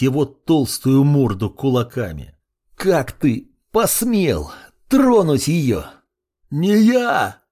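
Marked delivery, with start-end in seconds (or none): 2.8-5.8 enraged demand. A narrator's reading. Hero beating the villain. 6.5-7.4 higher, panicked roar from the beaten prince; roaring denial. A narrator's reading. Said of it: "взревел он".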